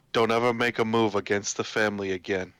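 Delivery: lightly voiced mob boss warning; a hint of a menacing crime don; Michael Corleone. Podcast guest playfully warning a film director, lightly voiced mob boss. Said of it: "go full, uh, Michael Corleone".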